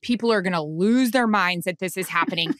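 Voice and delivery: fast, thrilled rush of words; excited rush. Retold or imitated. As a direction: gush about the historic moment. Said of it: "No, it was".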